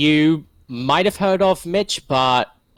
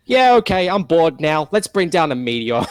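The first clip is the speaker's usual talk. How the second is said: bored villain voice; 5 semitones higher, 4 dB louder than usual. Retold or imitated. Villain bored, summoning a meteor.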